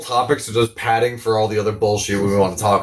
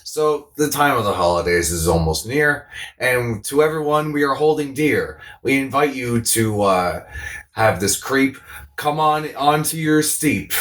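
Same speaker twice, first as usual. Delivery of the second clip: mock rhyming recital. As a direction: recite an improvised rhyme, slowing into the last line. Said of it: "I tried to make a rhyme".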